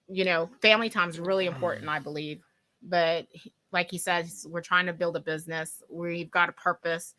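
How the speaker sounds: drowsy, medicated and subdued; sedated. Real, not acted. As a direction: talk as if still drugged. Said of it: "I'm still kinda drugged up".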